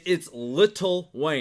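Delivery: "Little" said slowly with both syllables full; deliberate, drawn-out "Little", not shortened to Lil; spelled-out "Little". Retold or imitated. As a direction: stretch out the rapper's name, every sound in place. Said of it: "L I T T L E".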